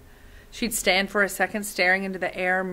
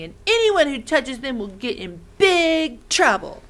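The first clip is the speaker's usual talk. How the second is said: put-on threatening boy; 3 dB louder than usual. Torin threatening Lena.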